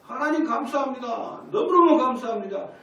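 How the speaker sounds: loud, high-pitched acted prayer of victory; jubilant thanksgiving. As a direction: cry out thanks to God in triumph. 승리와 감사를 기도로 재연. (벅차서 높고 크게 외치는 감사 기도)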